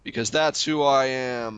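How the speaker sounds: low, slow, grumpy drone; mopey Max act. Pretend. Co-host plays a sulky version of himself for the host, low and slow. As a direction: play the guy who hates everything. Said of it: "you be me and I'll be you".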